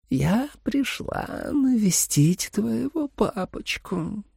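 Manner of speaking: sweet menacing vampire, slow; tender singsong. A narrator's reading. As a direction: croon it like a lullaby. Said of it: "пропел её нежный голос".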